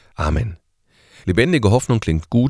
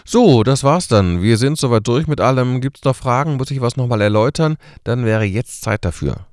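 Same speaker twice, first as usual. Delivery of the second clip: higher, louder, brisk teacher closing a lesson; mock lecturer wrapping up; 4 semitones higher, 4 dB louder than usual. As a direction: play a lecturer hurrying to finish the class. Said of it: "Ungefähr so läuft das".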